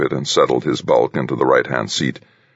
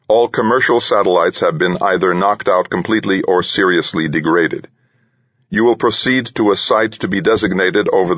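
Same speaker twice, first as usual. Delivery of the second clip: droning computer-synthesized voice; robot voice; 6 semitones higher than usual. Acted. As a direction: read it like a machine, monotone. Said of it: "a mechanical voice started dictating".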